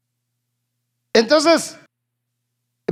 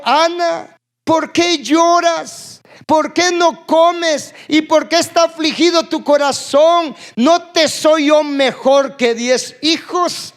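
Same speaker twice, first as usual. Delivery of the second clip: pleading husband; 4 semitones higher, slower than usual. Acted. Husband's words read with feeling.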